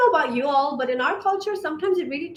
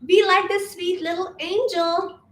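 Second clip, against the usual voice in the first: higher-pitched, lightly cooing mimicry of men; mock sweet preference; 5 semitones higher than usual. Woman mimicking what men always say, mock sweet. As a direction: imitate men gushing, pitched up and a little mocking.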